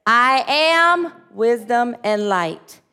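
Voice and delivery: a slow, firm group affirmation; slow spoken affirmation. Shown as a demonstration. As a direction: declare each word slowly from the heart. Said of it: "Do it again".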